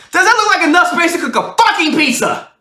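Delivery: high-pitched retold outburst; mock angry outburst. Repeats roommate's sudden outburst.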